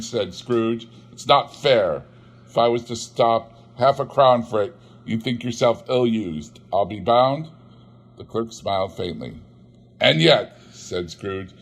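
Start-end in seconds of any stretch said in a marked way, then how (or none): 1.1-7.5 lightly voiced miser's complaint; grumbling Scrooge. Scrooge grumbling at his clerk, sour. 10.0-10.6 lightly voiced miser's complaint; grumbling Scrooge. Scrooge grumbling at his clerk, sour.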